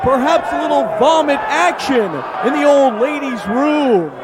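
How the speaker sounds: excited ringside play-by-play; wrestling commentator. Real, not acted. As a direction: call the match live from ringside.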